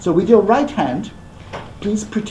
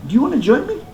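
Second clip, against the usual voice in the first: inviting Master; 9 semitones higher, faster than usual. Acted. Master offers the guest sake.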